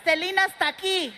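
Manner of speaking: high reverent cry in Spanish; mock awed worship. Kids touching the car like a shrine, high mock awe. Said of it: "like it's a shrine".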